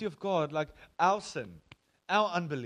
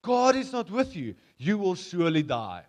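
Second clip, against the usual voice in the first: stern warning; 3 semitones higher, 7 dB louder than usual. Retold or imitated. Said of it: "he says to them".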